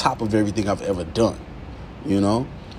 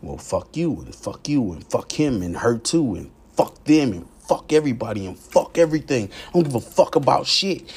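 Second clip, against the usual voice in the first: defiant demon feeling; 3 semitones higher than usual. Acted. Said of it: "when I'm feeling this demon inside of me".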